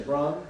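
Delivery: brung as a joking question; playful wrong form brung; mock dialect form. Shown as a demonstration. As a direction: tease with brung. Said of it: "What do you say".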